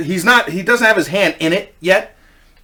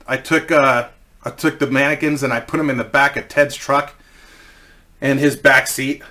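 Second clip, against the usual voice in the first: ordinary talk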